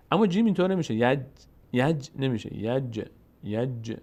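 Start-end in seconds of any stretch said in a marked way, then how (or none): 2.6-4.0 یج with a slight bounce on the ج; qalqala یج. Shown as a demonstration. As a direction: bounce the ج in یج a little, slowly. (یج با قلقله)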